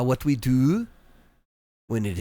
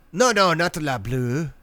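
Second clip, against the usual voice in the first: mock outrage; 5 semitones higher, 6 dB louder than usual.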